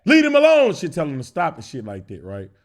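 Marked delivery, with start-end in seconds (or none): 0.0-0.7 mock granny scolding. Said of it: "my granny would be".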